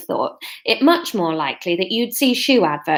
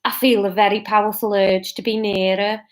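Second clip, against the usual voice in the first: put-on Liverpool-tinged accent at usual pitch; still Scouse. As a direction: aim for Brummie but stay Scouse. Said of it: "Still Scouse".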